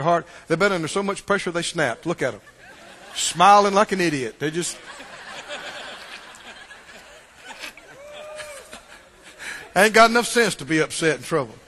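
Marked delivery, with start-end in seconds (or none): 3.1-11.6 chuckling through the words; amused laughing aside. Real, not acted. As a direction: laugh while you say it. Laughing at the idea.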